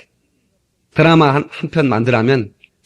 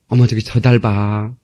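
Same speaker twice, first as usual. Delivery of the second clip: put-on Seoul girlfriend on a date. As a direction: coo lightly, imitating a Seoul date. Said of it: "서울 사람이 이렇게 데이트를 하는데". (살짝 흉내 낸 서울 여자 말투)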